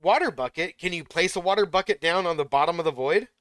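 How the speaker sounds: loud, high, rushed disbelief; real adrenaline rush. Real, not acted. Streamer tells viewers how he nearly died, loud excited disbelief. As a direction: burst out that you survived. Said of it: "oh, that was so intense".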